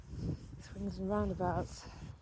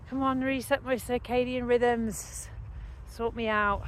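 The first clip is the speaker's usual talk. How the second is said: higher, slow, half-joking appeal; mock plea to the sun; 5 semitones higher, 3 dB louder than usual. Real, not acted. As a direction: coax the sunrise playfully, drawn out. Pleading with the rising sun.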